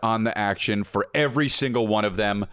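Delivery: punchy, drawn-out sponsor pitch; hyped ad read. Acted. Host pitching sports betting to listeners, hyped ad read. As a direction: sell it with big stressed key words.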